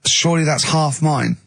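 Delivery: dry sarcastic jab; slow, pointed sarcasm. Retold or imitated. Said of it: "I was sort of being sarcastic".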